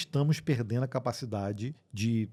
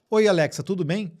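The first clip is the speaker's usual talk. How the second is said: higher, chirpy mock assistant greeting; Alexa impression; 4 semitones higher than usual. Host imitating Alexa's new friendlier voice, higher and perky. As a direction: play the voice assistant trying to sound cool. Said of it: "tá com uma entonação mais aguda".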